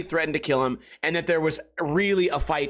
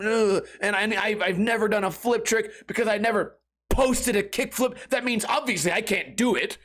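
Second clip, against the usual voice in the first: angry rant; 3 semitones higher than usual. Retold or imitated. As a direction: whine and rage like a hater. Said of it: "They think that I wake up every day and I go".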